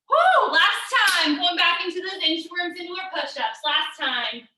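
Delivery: out of breath, pushing through; gasping between phrases. Real, not acted. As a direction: talk between quick breaths. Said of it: "I'm out of breath".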